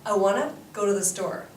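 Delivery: fast Canadian run-together "I want to go to the store"; Canadian accent. Shown as a demonstration. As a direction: repeat it the casual Canadian way, quickly. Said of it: "Just try".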